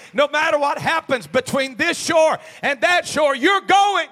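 high, shouted preaching; full-force repeat. Shown as a demonstration. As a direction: shout it as a promise to the congregation. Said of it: "Let me try that again".

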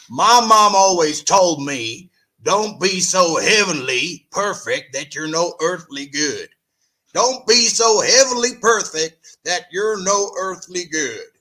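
put-on Southern accent. Mimicking Kenny's saying from mom, Southern accent. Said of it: "I just gotta do this one in a Southern accent".

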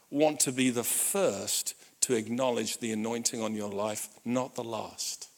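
low, measured sincerity; tender father. Retold or imitated. Father affirming his crying son, tender solemn words. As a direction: drop low and say it gently, with weight.

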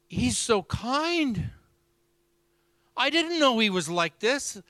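high, drawn-out, imitated tearful wonder; mock weeping. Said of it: "And she begins weeping".

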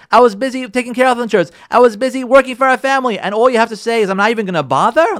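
a husband bristling at criticism; defensive retort. Acted. Husband snaps back defensively.

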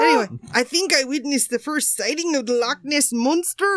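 hammed-up English accent hello; mock English accent; put-on English accent. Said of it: "Tell me that's your English accent".

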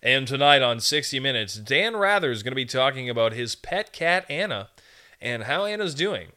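big broadcast intro voice; booming announcer. Shown as a demonstration. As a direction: announce it like a primetime anchor. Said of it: "speak with the power of Thor".

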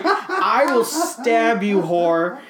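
drawn-out, exasperated comic rant; hammed-up fury, played for laughs; mock-furious threat. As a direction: lean hard and slow on the threat. Ranting about how much she irks.

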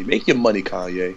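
smooth radio host sign-off. Acted. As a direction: toss it off like a DJ on air. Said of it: "I sound like a radio host".

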